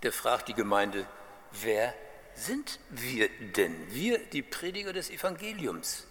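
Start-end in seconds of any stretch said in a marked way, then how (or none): 1.5-6.1 genuine question. Acted. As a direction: ask it openly, drawing out the words. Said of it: "verstehe das als eine echte Frage".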